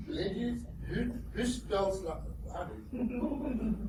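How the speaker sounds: high, slow, put-upon voice; exasperated retort to wife. Retold or imitated. Arguing with his teacher wife over spelling, exasperated. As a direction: stretch it out in disbelief. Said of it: "I can't go".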